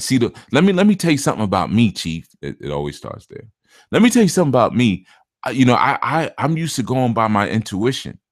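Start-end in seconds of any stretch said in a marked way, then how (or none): 3.9-8.2 mocking client. Mocking the caller who trusts his intuition. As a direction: imitate the know-it-all caller.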